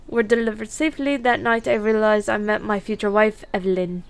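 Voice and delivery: attempted Irish accent, lightly done; storytelling in an amateur Irish brogue. Horse breeder recalling a difficult foaling, attempted Irish accent. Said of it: "if I offend anyone with that accent".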